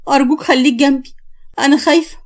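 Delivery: mildly fearful plea; scared pleading. Acted. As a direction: beg for someone to stay close.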